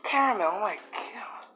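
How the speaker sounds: hushed whisper to the cat. Real, not acted. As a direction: breathe it, nearly no voice.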